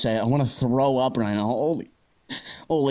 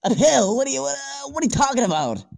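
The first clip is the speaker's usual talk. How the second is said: shocked disbelief; 9 semitones higher, faster than usual. Acted. Offered a pill, reacts in disbelief.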